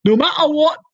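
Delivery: high frantic yelling warning; panicked shout. Acted. Father panicking on the phone.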